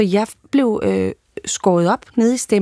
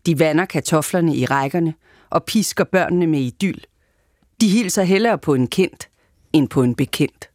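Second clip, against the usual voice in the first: lower-pitched poem recital; poem reading; 5 semitones lower than usual. Acted. Actress tries the same poem her own way, poem reading. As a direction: read the verse out in a slightly lowered voice. Reads the poem aloud when asked.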